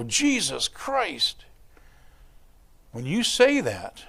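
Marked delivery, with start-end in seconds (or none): 0.0-1.4 slow, offhand exclamation of pain; careless curse. Retold or imitated. Hitting his thumb with a hammer, careless slow curse. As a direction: blurt "Jesus Christ" as a throwaway curse. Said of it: "you hit your thumb with a hammer and you go".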